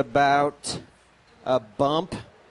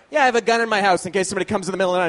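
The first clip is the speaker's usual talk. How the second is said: fast, offhand gun-owner voice; lightly voiced cocky gun owner; mock gun owner; much faster than usual. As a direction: rattle it off like a smug gun owner. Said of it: "That's when people are like".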